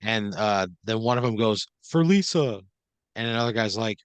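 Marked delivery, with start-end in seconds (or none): 1.8-2.6 high rallying shout; raised, rousing pledge; battle cry. Acted. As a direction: cry out a dedication before the charge. Bag holder's rallying cry.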